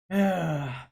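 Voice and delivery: loud exasperated sigh in character; weary sigh. Acted. Father giving up on arguing, heavy sigh. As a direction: let out a put-upon sigh. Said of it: "kind of sigh".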